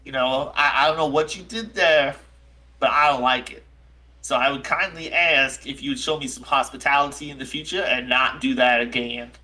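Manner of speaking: lightly voiced shaken, aggrieved character; a touch of wounded indignation; Jack O'Toole. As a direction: mildly reproach a friend who scared you. Game master voices Jack O'Toole.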